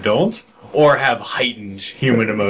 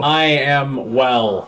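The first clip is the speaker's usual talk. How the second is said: robot voice; 3 semitones higher, much slower than usual. Pretend. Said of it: "talking like a robot".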